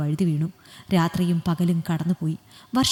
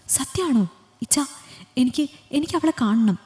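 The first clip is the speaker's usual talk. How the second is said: eager joy; 4 semitones higher than usual. Acted. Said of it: "അത്യധികം സന്തോഷത്തോടെ".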